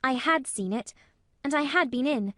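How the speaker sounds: put-on high, firm little girl; bold confession. A narrator's reading. Mary confessing to Colin she has been inside, bold. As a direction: confess it boldly, stressing the truth. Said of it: "boldly spoke the truth".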